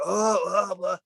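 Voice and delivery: lightly imitated splutter on the phone; half-acted coughing and spitting talk; mock sputtering. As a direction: sputter it out, imitating someone choking. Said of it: "coughing, sputtering, spitting".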